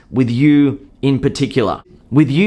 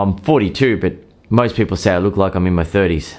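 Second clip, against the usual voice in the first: lower, hurried and unsure of himself; insecure; 4 semitones lower than usual. Acted. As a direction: sound anxious to justify your age. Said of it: "to some insecure ones".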